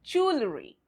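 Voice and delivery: JEWELRY tightened to jool-uh-ree; no vowel between W and L in JEWELRY, jool-uh-ree; silent E. Shown as a demonstration. Teacher models the correct way, JEWELRY as jool-uh-ree. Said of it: "how do we pronounce it?".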